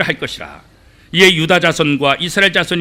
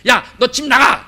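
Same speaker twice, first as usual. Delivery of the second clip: mock parent scolding; 7 semitones higher, 3 dB louder, slower than usual. Angry parent scolding a child.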